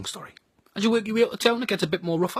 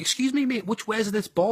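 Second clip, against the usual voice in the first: higher-pitched polite enquiry; polite Southerner; 4 semitones higher than usual. Retold or imitated. Southerner asking a local for directions, polite enquiry. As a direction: lightly imitate a visitor asking directions. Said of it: "Southerners ... when you be polite when they ask".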